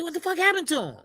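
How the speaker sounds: high, stunned outburst; shocked disbelief. Retold or imitated. Asking a friend about the drained fighter, high stunned disbelief. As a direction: replay the shock of seeing him shrunk. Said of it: "I said".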